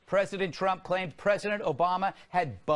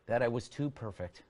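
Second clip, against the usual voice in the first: lower, softer mock quote; President Obama; 8 semitones lower, 6 dB quieter than usual. Comedian mimicking the ex-president's answer about his mistake, lightly voiced impression. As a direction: drop low and quiet for the imitated answer. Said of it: "if you ask President Obama".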